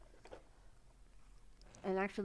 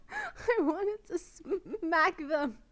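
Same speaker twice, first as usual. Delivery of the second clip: high laughing, slow, drawn out; shrieking with laughter while pretending to want to smack them; laughing outrage; 8 semitones higher, 6 dB louder, much slower than usual. Real, not acted. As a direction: laugh through mock fury at the comment. Outraged at troll comment.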